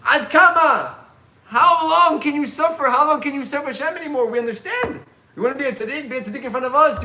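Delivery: high, loud anguished pleading; screaming students. Retold or imitated. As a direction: shout it up at your dying teacher. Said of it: "They were screaming".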